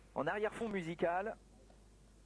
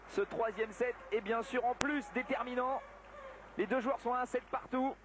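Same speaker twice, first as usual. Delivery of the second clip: excited commentary; 5 semitones higher than usual. Real, not acted. Commentator heats up at tight finale.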